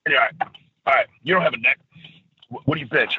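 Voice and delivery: lightly voiced Triple H sizing up a wrestler; a hint of a bored boss chewing gum; Triple H impression. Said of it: "that was me doing a Triple H impression".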